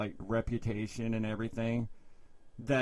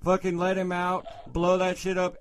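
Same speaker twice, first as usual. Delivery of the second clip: loud, raised heckle; retold catchphrase yelling; 4 semitones higher, 5 dB louder than usual. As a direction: call out catchphrases like a rowdy onlooker. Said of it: "yelling at this bitch every fucking catchphrase".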